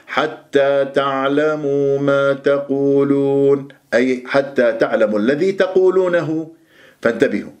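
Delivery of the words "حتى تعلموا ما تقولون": slow chanted verse, relative ma unstressed; Quran recitation demo. Shown as a demonstration. Teacher models the verse for students, slow recitation. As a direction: recite measured, stretching long vowels. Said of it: "هذه ما موصولة".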